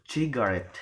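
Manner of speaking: "cigarette" with the final syllable RETTE stressed. Shown as a demonstration. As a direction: lean on the end of "cigarette". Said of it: "cigarette or the last".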